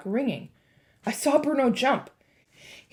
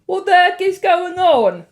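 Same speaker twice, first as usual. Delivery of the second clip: higher, louder bewildered schoolboy; puzzled boy; 8 semitones higher, 10 dB louder than usual. A narrator's reading. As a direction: ask it like a confused kid. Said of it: "Bruno asked".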